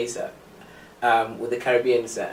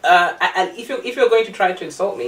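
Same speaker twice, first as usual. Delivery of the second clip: laughing; 4 semitones higher, 3 dB louder than usual. Retold or imitated. Retold laughing comeback to insult.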